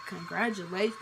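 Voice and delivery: flat, dazed repeat of "Congratulations." with a small questioning rise; stunned echo. Retold or imitated. Shocked girl repeating the nurse's news back, dazed and flat. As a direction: echo the word back in disbelief. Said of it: "And I'm just like".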